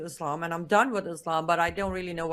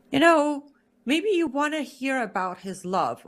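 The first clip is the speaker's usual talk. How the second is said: gentle boss; 6 semitones higher than usual. Retold or imitated. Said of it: "It's like".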